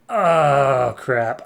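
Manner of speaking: loud, drawn-out "oh" of dismay; hammed-up exasperation; dismayed groan. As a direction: groan it out, then drop off. Hero dismayed after demon's threat.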